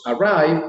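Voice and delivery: "Arrive" marcado, más alto; clear model word. Shown as a demonstration. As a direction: pronuncia "Arrive" despacio y claro. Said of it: "observe mis labios". ("Arrive" articulado para que lean los labios)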